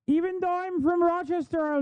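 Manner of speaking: mock her fake Upper Peninsula accent; mock Yooper accent. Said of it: "I'm a Yooper".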